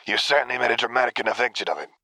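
a touch of cheerful teasing; lightly amused ribbing; mild cheerful tease. A narrator's reading. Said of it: "chimed in cheerfully".

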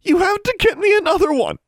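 put-on high, loud girl almost screeching; near screech. A narrator's reading. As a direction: rise to a desperate near-screech. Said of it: "her voice rose almost to a screech".

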